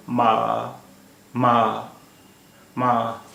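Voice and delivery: teacher models flat-tone "मा"; first tone ma. Shown as a demonstration. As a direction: demonstrate "मा" with an even, sustained pitch. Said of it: "मा का मतलब होता है माँ".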